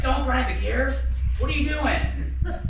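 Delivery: drawn-out, high, loud retold scolding; imitated yelling. Dad scolding the shaking learner, imitated yelling. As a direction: stretch the words in mock exasperated yelling. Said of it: "He always yelled".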